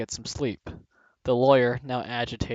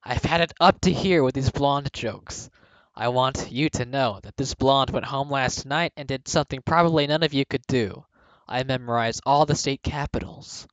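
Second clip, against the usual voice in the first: shrill announcement; 3 dB louder than usual. Acted. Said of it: "with a shrill announcement".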